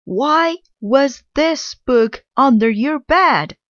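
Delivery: high, loud outraged scream; screamed question. Acted. Mother Witch confronts Little Witch, screaming accusation. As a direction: scream it at her, furious and high. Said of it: "she screamed".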